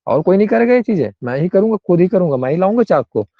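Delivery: mildly insistent mock boast; touch of ego. Teacher acting someone who insists on doing it alone, mildly egoistic. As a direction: lightly act out stubborn self-importance. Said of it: "थोड़ा-सा ego में बात आ गई".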